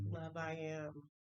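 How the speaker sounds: slow, reversed Yoda word order, barely voiced; Yoda-style reversed mantra. Shown as a demonstration. She reverses her mantra like Yoda, slowly. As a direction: flip it around like Yoda, slowly. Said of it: "like Yoda".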